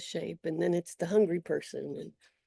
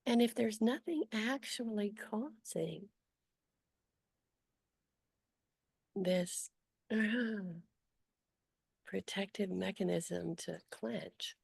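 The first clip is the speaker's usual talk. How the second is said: unhurried guiding voice with long pauses; guided meditation. Acted. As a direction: gently lead them through noticing, leaving long silences.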